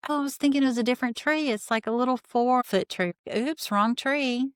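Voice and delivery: high, fast panicky squeak; mock panic. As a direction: imitate her flustered panic, rushing. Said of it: "Robin starts to truly panic here".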